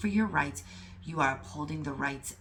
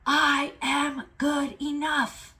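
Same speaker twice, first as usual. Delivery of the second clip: loud, high, slow declaration from the chest; roaring; 9 semitones higher, 5 dB louder, slower than usual. Real, not acted. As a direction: roar it like a lion. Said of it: "That's how I feel right now".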